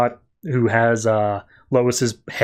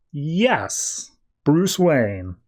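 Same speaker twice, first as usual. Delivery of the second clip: stretched yes, then the name said carefully; mock-unsure, playing along with the name; hesitant bluffing; much slower than usual. Batman with no memory confirms his name, hesitantly bluffing.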